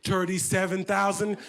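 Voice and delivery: put-on mom's French-accented bid; thick accent, deliberate delivery. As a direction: imitate an accented mother placing a bid. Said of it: "My mom, accent and all".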